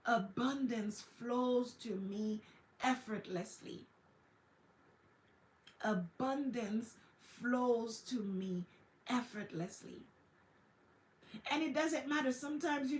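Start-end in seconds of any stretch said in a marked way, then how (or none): 0.1-3.9 slow calm affirmation. Shown as a demonstration. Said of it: "turn around and say". 5.8-10.0 a drawn-out soothing affirmation; slower repeated affirmation. Shown as a demonstration. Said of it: "turn around and say".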